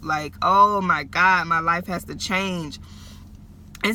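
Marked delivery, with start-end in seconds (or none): 0.4-2.8 retold crying out. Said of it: "I was crying out".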